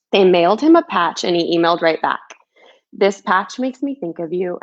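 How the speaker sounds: put-on gentle rhyming storybook read, like to a child; reading a picture book. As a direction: read it like a bedtime story for kids. Author reads her picture book aloud.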